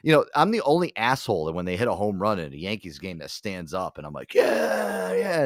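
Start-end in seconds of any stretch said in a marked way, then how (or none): 4.3-5.4 high, loud whooping cheer; lone cheer. Retold or imitated. Only visiting fan cheering a home run, high excited yell. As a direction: re-enact a fan's excited yell.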